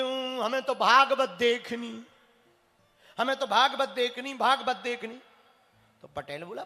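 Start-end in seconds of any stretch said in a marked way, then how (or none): 0.0-5.2 put-on whining child. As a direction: whine it like a spoiled child.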